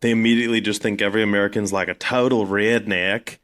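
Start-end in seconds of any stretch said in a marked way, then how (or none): 1.9-3.4 slow redneck American drawl; redneck accent. Retold or imitated. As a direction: stretch it out in a mock redneck accent. Mocking the imagined American accent.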